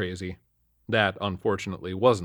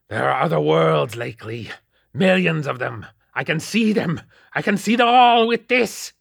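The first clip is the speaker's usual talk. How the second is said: higher and louder, climbing to a shout; ranting; 7 semitones higher, 7 dB louder than usual. A narrator's reading. Possessed old man ranting at the cop, rising to a shout. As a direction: rave about other worlds, building up. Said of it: "he ranted".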